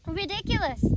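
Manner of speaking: roared. A narrator's reading. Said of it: "roared Lupin".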